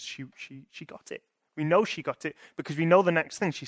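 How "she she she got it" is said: breathy whisper of revelation. A narrator's reading. Preacher whispering that Martha finally understood. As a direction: let it fall to a hushed whisper. Quiet realisation.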